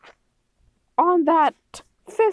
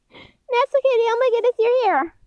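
excited greeting; 5 semitones higher than usual. Acted. Oh my goodness, you're here.

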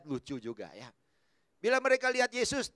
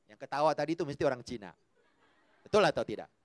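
normal talking voice

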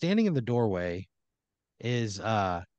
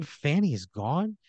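slow question, pitched up; shocked disbelief; 4 semitones higher, slower than usual. Acted. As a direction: take in the bad news slowly, incredulous. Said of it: "he's, like, in shock".

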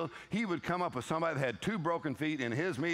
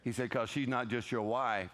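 much lower, calm voice of the Lord; voice of God; 8 semitones lower, 3 dB quieter than usual. Retold or imitated. The Lord answering the husband, much lower and calm. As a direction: speak low and settled as God. The Lord's retold voice.

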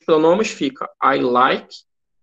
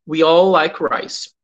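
slow, stretched all; slow teacher read; slow model sentence; 4 dB louder, much slower than usual. Shown as a demonstration. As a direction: linger on all for learners. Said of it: "significa todos ou todas".

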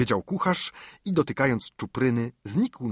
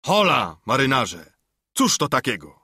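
calling out; 4 dB louder than usual. A narrator's reading. Cook climbing aboard hails the sailors, calling out. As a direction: hail the crew with a restrained shout. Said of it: "krzyknął".

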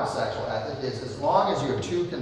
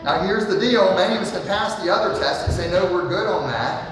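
excited preaching; 5 semitones higher, 4 dB louder than usual. Real, not acted.

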